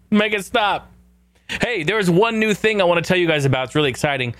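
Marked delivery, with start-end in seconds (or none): 0.1-0.9 pitched-up mock plea; exasperated higher make it stop; higher pleading repeat. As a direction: beg it to stop, voice jumping up. Begging the sound clip to stop.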